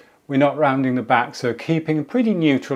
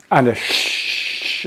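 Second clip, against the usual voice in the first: spit take; much slower than usual. Shown as a demonstration. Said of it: "I just spat all over the floor".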